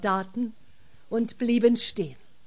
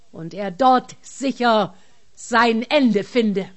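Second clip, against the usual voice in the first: angry giant voice; 6 dB louder than usual. Acted. Giant berates the lying officer.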